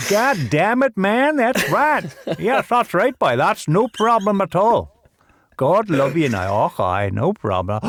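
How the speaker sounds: high, loud Ballymena Northern Irish brogue; full-on rural Northern Irish charm; loud, high Northern Irish accent with slow warm close; broad Northern Irish accent. Pretend. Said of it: "give us a little taste of that Northern Irish charm".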